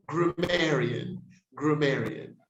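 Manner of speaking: grammarian repeated carefully with a reduced first vowel; corrected pronunciation. Shown as a demonstration. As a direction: model grammarian as gruh-MAIR-ee-un. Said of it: "we say grammarian".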